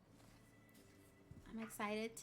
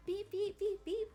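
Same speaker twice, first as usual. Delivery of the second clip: playful beeps; 10 semitones higher, 6 dB louder than usual. Real, not acted. Playful noise for viewer.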